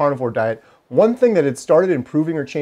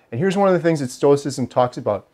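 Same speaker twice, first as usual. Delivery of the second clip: normal talking voice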